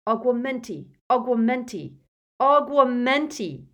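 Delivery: shouted spell, building each time; high, loud panicked casting; frantic incantation. A narrator's reading.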